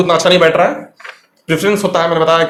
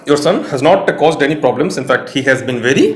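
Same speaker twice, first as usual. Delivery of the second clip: slow dictation read; 3 semitones lower, much slower than usual. Shown as a demonstration. Teacher reading the exam sentence aloud to students, slow and deliberate. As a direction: read it out slowly for students, word by word. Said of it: "teacher reads the question sentence".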